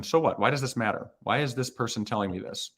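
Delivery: snarky, pitch jumping up on so what. Shown as a demonstration. Coach shows viewers the hiring manager's snarky question. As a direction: sneer it like a bored, doubtful reader. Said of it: "ask it in a snarky way just like that".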